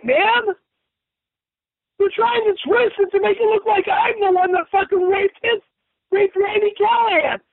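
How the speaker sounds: rising fury. Acted. Furious about the stolen account.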